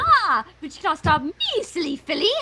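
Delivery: gloating villain. Acted. Villain Rarity voiced gleefully.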